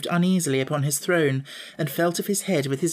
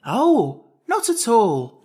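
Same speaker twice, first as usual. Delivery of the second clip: higher, louder, obliging reply; pleasant; 8 semitones higher, 6 dB louder, much slower than usual. A narrator's reading. Jack answering Jellia's question, pleasantly. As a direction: politely wave away the concern. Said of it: "answered Jack more pleasantly".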